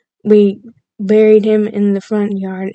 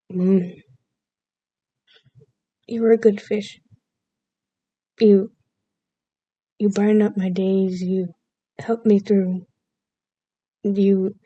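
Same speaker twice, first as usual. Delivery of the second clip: overdramatic eulogy; 5 dB quieter than usual. Retold or imitated. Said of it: "just imagine an overdramatic".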